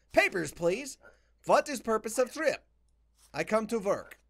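lightly voiced Slavic border inspector; play-acted Slavic checkpoint dialogue; mock Eastern European accent. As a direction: read the exchange with a put-on Eastern European accent.

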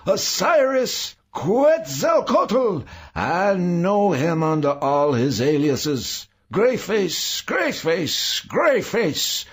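very high, loud, hysterical tirade; raging shriek. A narrator's reading. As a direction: shriek curses at your tormentor. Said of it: "Saul shrieked".

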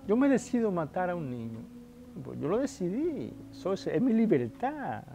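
preacher mimics a defiant sinner bragging; mock defiant boast. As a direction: parody the man who claims he may do anything. Voicing an imagined free-willer.

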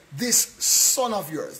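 slow, drawn-out sarcastic jab. Retold or imitated. Elder son mocking his brother to the father, sarcastic. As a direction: lean into THIS with scorn. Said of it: "that's with sarcasm".

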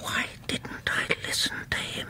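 hushed regret; whispered self-reproach. Acted. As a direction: mutter to himself in dread.

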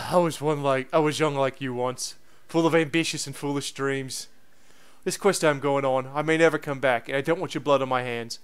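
a touch of grave warning from the professor; world-weary professor. Acted. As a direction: reflect quietly on youth, in character.

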